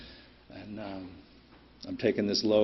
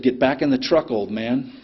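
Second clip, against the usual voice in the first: louder brusque command, pitched up at first; retold curt order; 3 semitones higher, 6 dB louder than usual. Kid in the Volvo orders the trucker back, retold brusque command. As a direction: quote a rude young driver's order. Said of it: "your delivery is a lot better than this".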